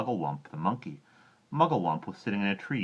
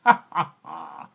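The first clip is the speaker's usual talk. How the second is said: much higher mock villain laugh; loud laugh; 11 semitones higher, 11 dB louder, slower than usual. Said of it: "laughed out loud".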